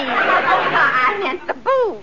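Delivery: laughing. Acted. Maid laughs off her blunder.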